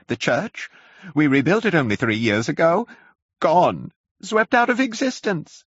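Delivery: high, loud wailing lament; lamenting curate. A narrator's reading. Curate mourns Weybridge to the narrator, high wail. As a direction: wail over the lost church. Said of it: "he began waving his hand".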